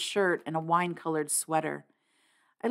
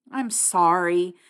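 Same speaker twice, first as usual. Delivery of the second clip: miserable; slower than usual. Acted. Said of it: "I said miserably".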